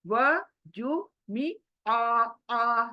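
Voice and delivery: वजू मी आ drawn out syllable by syllable, very slow; teacher slowing each syllable of वजू मी आ for students; read it slowly. Shown as a demonstration. Teacher shows beginners to read वजू मी आ slowly. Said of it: "पहले slow पढ़ो".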